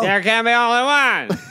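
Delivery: high, loud movie-hero proclamation; hammed-up triumphant shout; mock battle cry. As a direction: bellow it like a duel to the death. Acting crowd cheering on the fight.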